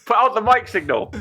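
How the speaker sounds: hammed-up cry summoning a hero; mock distress call. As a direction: beg like calling a superhero. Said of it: "someone screenshot that".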